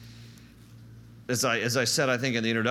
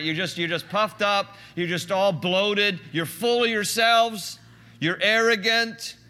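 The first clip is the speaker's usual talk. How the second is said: louder, higher, slow and pointed; emphatic scolding; 7 semitones higher, 5 dB louder, slower than usual. Acted. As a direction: hammer each phrase slowly at the arrogant crowd. Preacher scolding the Corinthians.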